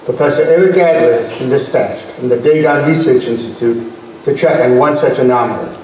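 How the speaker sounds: measured, dramatic serial narration; old sci-fi announcer. A narrator's reading. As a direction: open the story like a retro sci-fi reel.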